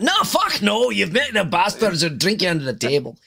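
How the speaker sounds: high-pitched, outraged dwarf outburst; comic dwarf indignation; indignant dwarf. Acted. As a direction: refuse it like an offended tavern dwarf. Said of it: "have you ever met a dwarf".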